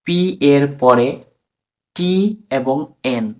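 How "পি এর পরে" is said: P এর পরে slow and loud, word by word; emphatic repeat. Shown as a demonstration. Teacher repeats the rule, slow emphatic P এর পরে. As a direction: spell out P এর পরে slowly with force. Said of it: "I repeat".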